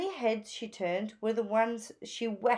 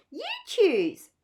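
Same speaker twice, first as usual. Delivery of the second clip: higher, longing little bird; lightly raised yearning voice; lightly voiced Phoebe; 11 semitones higher, 4 dB louder than usual. A narrator's reading. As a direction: wish for more, a touch wistful.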